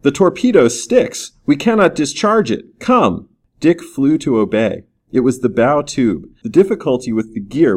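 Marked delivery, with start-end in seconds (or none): 0.0-3.3 high-pitched urgent report; narrated officer's urgent call; urgent cry. A narrator's reading. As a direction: cry out the problem, voice lifted high. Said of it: "he cried".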